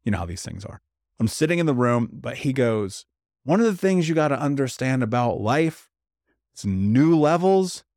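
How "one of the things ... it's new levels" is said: lightly imitated big-voiced preacher, slow and emphatic; T D Jakes. Retelling a bishop's lesson from the stage, lightly preacherly and deliberate. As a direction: land each phrase like a bishop preaching, with long stretched words. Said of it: "like, big booming voice. He talks like this".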